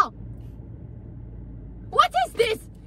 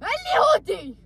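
fast furious threat in Arabic; much faster than usual. Acted. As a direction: spit the threat out quickly. Wife threatens husband.

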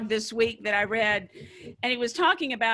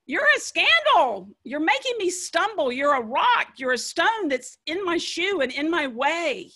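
sharp rebuke; 3 semitones higher than usual. Retold or imitated. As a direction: scold him like a stumbling block. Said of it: "Jesus says to Peter".

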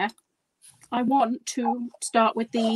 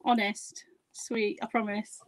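whispering; 5 dB quieter, slower than usual. Pretend. Promising to be quiet.

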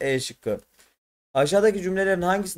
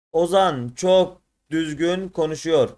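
slow careful reading; 2 semitones higher, 3 dB louder, slower than usual. Shown as a demonstration. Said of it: "doğru okunuşu hangisidir".

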